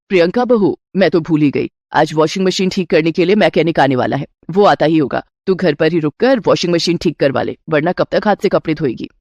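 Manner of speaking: a doting mother-in-law offering a gift. Acted.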